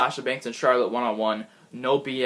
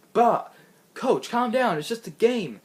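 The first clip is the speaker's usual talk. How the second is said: Darren calming coach; 8 semitones higher than usual. Retold or imitated. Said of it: "Darren Young was like".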